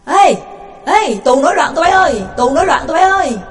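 loud, high alarm call down the corridor; guard yelling that the prisoners riot; shouted alarm. Acted. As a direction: raise the alarm, calling far. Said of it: "Có tiếng la".

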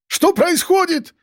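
very high, drawn-out hysterical cry; wounded-beast roar. A narrator's reading. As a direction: roar it slowly like a wounded animal. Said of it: "как раненый зверь ревел Рубен".

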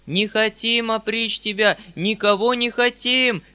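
loud, high, slow collective cry; wailing peasant chorus. A narrator's reading. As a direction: wail out like a crowd of peasants. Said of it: "завопили вдруг мужики целым хором". (вопль мужиков хором)

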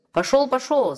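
final dismissal; shouting away. A narrator's reading. Smith slams the door, shouting. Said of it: "закричал кузнец".

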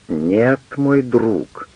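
usual speaking voice

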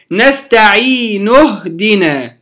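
نستعين اهدنا joined, the ي of نستعين held two counts; natural madd in connection. Shown as a demonstration. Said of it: "سأقف على نستعين". (وصل نستعين اهدنا بمد طبيعي)

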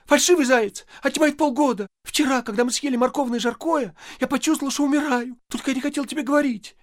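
wife complaining to her husband; tearful young wife. Acted. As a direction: whine on the edge of tears. Wife complaining near tears.

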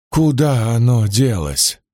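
slow, heavy-tongued question; slurred, barely moving tongue. Acted. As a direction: drag the words out groggily. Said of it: "еле ворочая языком".

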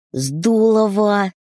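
put-on high, slow delighted child cry; excited little girl. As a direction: squeal it like a happy kid. Daughter exclaims.

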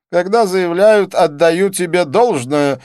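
high, slow, loud quoting back; pompous, drawn-out echo of a compliment; self-satisfied. A narrator's reading. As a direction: pronounce it smugly and slowly. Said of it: "заметил он с самодовольным видом".

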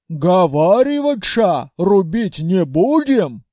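slow, dim-witted orc voice; a slow, confused orc warrior; puzzled orc. A narrator's reading. Orc general asking the hero, slow puzzled voice.

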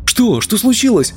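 high alarmed cry; a startled shout pitched high. A narrator's reading. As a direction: blurt it out in alarm, voice jumping up. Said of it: "выкрикнул я".

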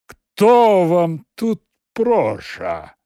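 slow, loud, haughty question. Acted. Empty suit answering the secretary, haughty. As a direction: look down on her as you ask. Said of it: "осведомился надменно".

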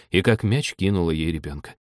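ordinary delivery, nothing marked

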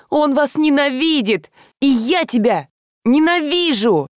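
высоко, срываясь на рыдание; выкрикнуть обиду сквозь слёзы; крик на грани слёз. A narrator's reading. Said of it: "Она разрыдалась". (Даша кричит о брате, вот-вот разрыдается)

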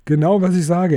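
panting. A narrator's reading. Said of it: "entgegnete Bilbo keuchend".

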